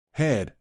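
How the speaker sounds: "had" set apart as a word of its own; stress on had. A narrator's reading. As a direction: put pointed emphasis on "had". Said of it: "I emphasized the word".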